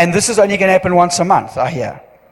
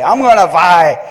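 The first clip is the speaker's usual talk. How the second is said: loud, lively imitated Indian English accent; Indian dialect; 5 dB louder than usual. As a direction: mimic an Indian storyteller with a loud, playful Indian accent. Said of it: "but in the Indian dialect".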